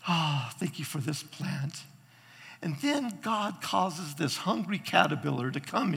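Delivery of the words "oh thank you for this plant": soft, grateful sigh as Jonah; understated contented gratitude; thankful. Retold or imitated. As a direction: quietly thank God, acted out. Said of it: "he's just there thanking God".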